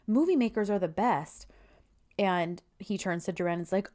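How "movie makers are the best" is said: high-pitched, staged small talk; fake casual chat. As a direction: pretend you're mid-chat, starting high and easing down. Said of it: "starts in the middle of a fake conversation".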